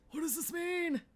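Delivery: high, loud shriek of confusion; frantic shriek. Real, not acted. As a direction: shriek the question in a panic. Repeats the question, more frantic.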